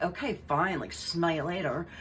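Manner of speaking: put-on light Valley Girl sass; a hint of Valley Girl brush-off. Vlogger mocking Meghan's flip goodbye, lightly Valley Girl. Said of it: "that's how she talks, like a Valley Girl".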